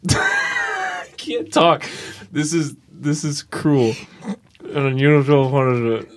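lips held still, words pushed through; talking with mouth closed. Shown as a demonstration. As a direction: ventriloquist talk without moving lips. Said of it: "Just talk without moving your lips".

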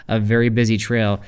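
firm telling-off without menace; scoldy. Retold or imitated. Retelling a rebuke to skittish-horse riders, scoldy but not mean. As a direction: scold them mildly, firmly setting them straight. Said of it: "more like a scoldy".

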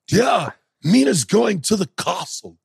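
drawn-out mock bad film accent; Keanu Reeves. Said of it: "Keanu Reeves".

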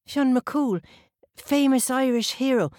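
put-on the girl echoing the hero's name in wonder; awed child. Child repeats in awe.

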